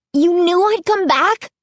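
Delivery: high, loud, shrill demand; girl confronting the store owner, shrill. A narrator's reading. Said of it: "demanded shrilly".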